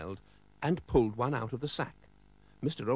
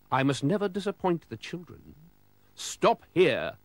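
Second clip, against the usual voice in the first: put-on higher, jolly old gent; Father Christmas voice; 5 semitones higher, 3 dB louder than usual. Father Christmas telling Mister Oldcastle about the sleigh, higher jolly voice. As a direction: play the cheery Santa stand-in.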